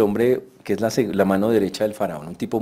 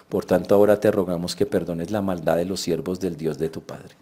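measured Bible reading; scripture reading; 4 semitones lower than usual. Shown as a demonstration. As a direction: read the text plainly and steadily. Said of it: "Él lo dice con otras palabras".

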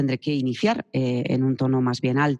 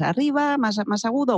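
rising high demo; 10 semitones higher than usual. Shown as a demonstration. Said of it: "el tono".

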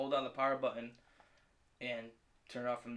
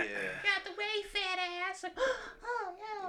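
mock shock; much slower than usual. Acting shocked about butts.

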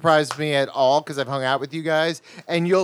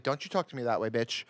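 mock scolding; 7 semitones lower, 10 dB quieter than usual. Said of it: "And he's like".

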